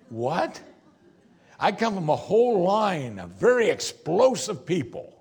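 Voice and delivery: mock the hothead who blames his family, pushed up and loud; mock excuse. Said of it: "don't do what so many Christians do".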